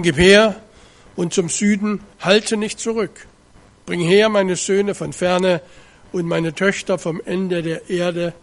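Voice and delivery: measured, weighty reading of the Bible text; solemn scripture reading. Acted. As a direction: read it out like a preacher in the pulpit. Liest Jesaja 43 feierlich vor. (feierliche Schriftlesung)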